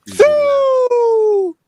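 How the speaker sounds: high shouted call. Real, not acted. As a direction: yell the name across the room. Calling out to someone.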